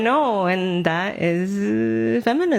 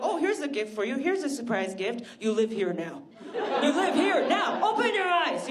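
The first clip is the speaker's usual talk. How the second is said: mothers; 4 semitones higher, 6 dB quieter than usual. Retold or imitated. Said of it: "They were like".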